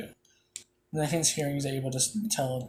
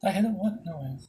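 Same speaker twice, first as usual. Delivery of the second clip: surprised; 5 semitones higher, faster than usual. Real, not acted. Gamer startled by his own hit, surprised outburst. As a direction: blurt it out in disbelief.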